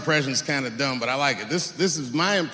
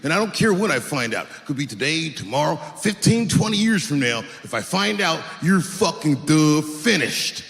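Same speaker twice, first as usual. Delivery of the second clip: mystery impression. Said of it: "who it is I'm doing an impression of".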